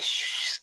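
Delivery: lisping shh sound. Shown as a demonstration. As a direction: show off the lisp on shh. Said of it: "That's my lisp".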